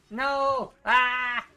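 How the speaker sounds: high loud shriek. Real, not acted. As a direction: shriek in dismay. Getting hit in fight.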